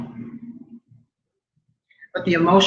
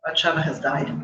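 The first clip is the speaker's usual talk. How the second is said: softer, quiet retold calm; incredible calm; 7 dB quieter than usual. Daughter telling her mother of the death, calmly. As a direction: state it softly and evenly, holding steady. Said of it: "In a voice of incredible calm".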